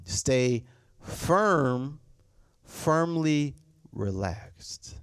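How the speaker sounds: slow, drawn out firmly relaxed; slow motto. Shown as a demonstration. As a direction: stretch the motto slowly. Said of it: "I have this phrase".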